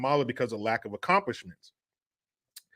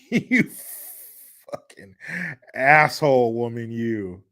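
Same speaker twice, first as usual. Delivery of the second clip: mock angry insult; 4 semitones lower than usual. Real, not acted. Insulting Kamala on screen.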